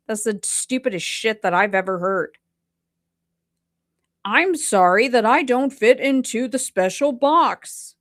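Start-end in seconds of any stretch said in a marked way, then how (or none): 4.2-7.9 lightly mocking fake apology; a touch of mock contrition; sarcastic apology. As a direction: say sorry without meaning a bit of it.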